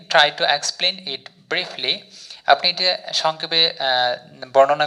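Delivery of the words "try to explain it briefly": very slow, word by word English; slow example sentence. Shown as a demonstration. Teacher reads example sentence to learners, very slowly. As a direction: spell out each word of the model sentence. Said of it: "sentence তৈরি করলাম".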